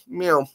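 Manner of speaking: small soft high mew; quick mock kitty cry; playful meow. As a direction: toss in a little cat noise. Playful noise while showing Batmobile.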